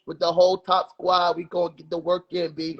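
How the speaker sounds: lightly put-on New York accent; playful try at a New York accent. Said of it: "That's your New York accent?".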